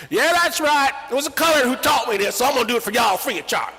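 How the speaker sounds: high, loud and fast; Kriegel. Retold or imitated. Kriegel offering to witch for free. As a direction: rattle it off like a salesman. Kriegel voiced talking to father.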